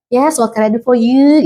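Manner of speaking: pleasant, lifted customer-service lilt; smiling voice. Shown as a demonstration. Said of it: "smiling voice yang enak didengar". (suara tersenyum yang enak didengar)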